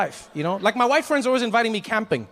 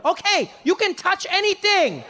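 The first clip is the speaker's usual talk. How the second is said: much higher, chirpy guide patter; overly happy tour guide; 11 semitones higher, slower than usual. Retold or imitated. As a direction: sell it like an eager tour guide. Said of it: "He's like".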